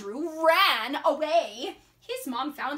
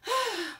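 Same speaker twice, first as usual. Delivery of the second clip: high sigh; exasperated sigh; 8 semitones higher than usual. Acted. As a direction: sigh at mom from your hiding place. Andrew in the tree.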